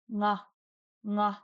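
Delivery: "nga" with NG as one opening sound; initial NG. Shown as a demonstration. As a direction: say "nga" starting on the ng of singing. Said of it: "words starting with nga".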